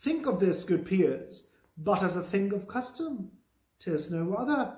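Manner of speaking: slow, deliberate Shakespeare read-aloud; measured dramatic recitation; play reading. Acted. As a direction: read the verse out slowly, word by word. Reads Lady Macbeth's lines.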